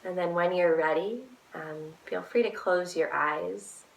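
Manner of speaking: calm, unhurried guidance with long pauses; guided meditation. Real, not acted. Guide leading a listener to feel each body part, guided meditation. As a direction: lead them gently through a body scan.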